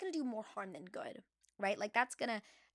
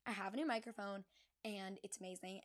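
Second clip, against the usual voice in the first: ordinary talk, nothing marked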